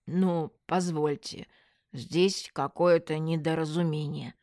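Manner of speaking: mildly offended, halting protest; self-justifying swindler. Acted. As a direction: explain it away haltingly, clearing the throat. Accused swindler makes coughing excuses.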